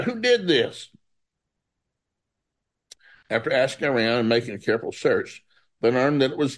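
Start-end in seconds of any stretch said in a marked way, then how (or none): 0.0-0.9 a high, startled cry of the crowd; shocked townspeople. Acted. Townspeople discovering the wrecked altar, shocked and high. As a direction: gasp it out in disbelief.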